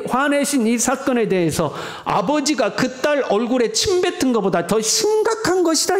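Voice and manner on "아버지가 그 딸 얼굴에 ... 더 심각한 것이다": God's stern words. Retold or imitated. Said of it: "이렇게 말씀하고 있는 거예요".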